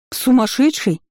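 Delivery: sudden high cry of shock; startled cry. A narrator's reading. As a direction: blurt it out, caught off guard, high. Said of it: "вскрикнула от неожиданности".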